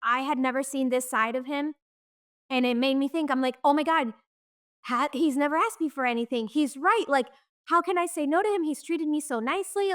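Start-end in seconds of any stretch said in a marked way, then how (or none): 3.6-9.9 higher-pitched, mildly stunned inner voice; retold shock. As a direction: replay your stunned thoughts, pitched up. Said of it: "And I was shocked".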